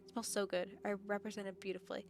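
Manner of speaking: reading the game's narration aloud; calm first-person story reading. Acted. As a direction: narrate the inner thoughts evenly. Reads visual novel narration.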